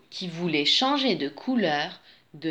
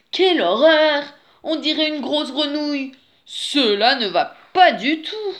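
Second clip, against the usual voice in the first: higher, louder cry of horror; horrified exclamation; 7 semitones higher, 6 dB louder than usual. A narrator's reading. Wolf exclaims at his green reflection, horrified. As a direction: exclaim it in dismay.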